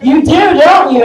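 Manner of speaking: high, loud knowing jab; teasing the crowd. Acted. Teasing the crowd about sharting.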